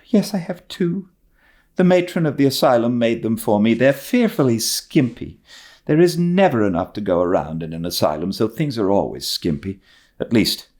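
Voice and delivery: put-on high, quick girlish chatter; eager orphan girl. Orphan girl telling Marilla about her skimpy nightgowns, high and quick. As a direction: rattle on like a lonely, talkative child.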